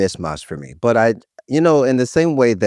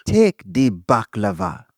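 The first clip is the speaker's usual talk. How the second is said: put-on Nigerian accent; slower than usual. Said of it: "use a Nigerian accent".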